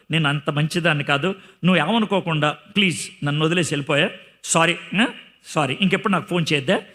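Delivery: mock polite breakup. Preacher mimicking someone politely dumping a lover, sarcastic. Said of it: "అలా అనరు".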